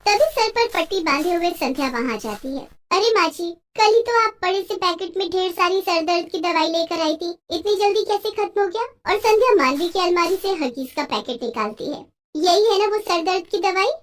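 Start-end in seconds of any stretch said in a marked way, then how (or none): 2.9-13.9 accusing bahu. Acted. Daughter-in-law exposes the secret.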